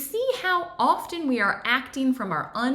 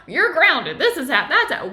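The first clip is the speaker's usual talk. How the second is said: higher, louder half-laughing mock yelling; mock screaming match; 5 semitones higher, 7 dB louder than usual. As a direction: play a parent yelling in a fight with a child. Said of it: "there's a screaming match".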